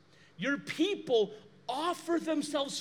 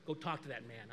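much lower, much softer; gentle command; 12 semitones lower, 11 dB quieter than usual. Retold or imitated. The Lord telling the pastor to go talk, low and quiet. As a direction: speak it low and quiet, as God. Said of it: "and the Lord said".

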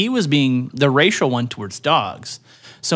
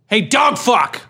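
higher, slightly louder jeering call; mock cow taunt; 7 semitones higher, 4 dB louder, slower than usual. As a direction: jeer at the dog like a rude cow. Cow yells insult at dog.

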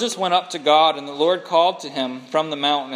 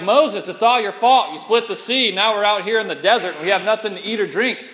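louder, accusing whine at Moses; complaining Israelites; 3 semitones higher, 4 dB louder than usual. Retold or imitated. People in the desert blaming Moses, accusing. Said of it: "They're like".

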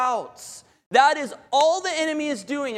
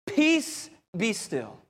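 quell the storm calmly, falling in pitch; calm command; slower than usual. Retold or imitated. Jesus speaking to the storm, calm command. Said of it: "Jesus very calmly gets up".

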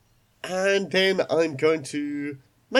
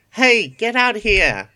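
loud high shout, drawn out; yelling; 8 semitones higher, 7 dB louder than usual. Acted. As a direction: call them out of the shed. Bunny yells to the shed.

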